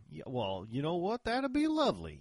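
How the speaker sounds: Texas drawl rising high and loud. Shown as a demonstration. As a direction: gush politely in a Texas drawl. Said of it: "put on your best Texas drawl".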